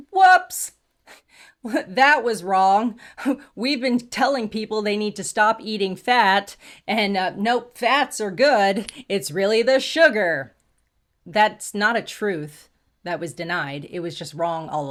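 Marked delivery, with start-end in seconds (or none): 0.1-10.5 a whooping high Whoops, then laughing through the retraction; laughing mock oops. Mocking scientists who got it wrong, laughing through it. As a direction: play a scientist laughing off a mistake. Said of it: "and then you're like".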